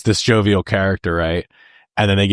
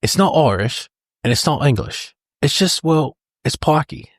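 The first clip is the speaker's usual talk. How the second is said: quoting Turkish; 7 semitones higher than usual. Retold or imitated. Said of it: "when Turkish is talking about the pikey accent".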